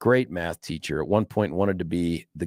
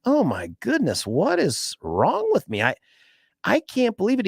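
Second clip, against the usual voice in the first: mock dismay; 12 semitones higher than usual. Teacher voiced in retold story.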